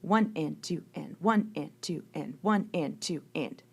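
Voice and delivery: even "One and two and", a slight lean on each one; counting subdivided beats. Shown as a demonstration. Music teacher counting simple duple subdivision for students, even pulse. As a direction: count the ands evenly between beats. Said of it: "it would be counted like this".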